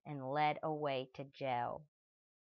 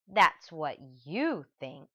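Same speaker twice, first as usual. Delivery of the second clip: smug retort; 5 dB louder, slower than usual. Acted. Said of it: "thought Stanley Lambchop".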